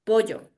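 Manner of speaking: "Pollo" with the Sierra double L; highland pronunciation. Shown as a demonstration. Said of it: "Yo digo pollo".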